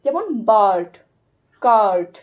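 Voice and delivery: teacher stretching the vowel; long a demo. Shown as a demonstration. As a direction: hold the a in বার্ড and কার্ট. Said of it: "কিন্তু এটা একটু long আ".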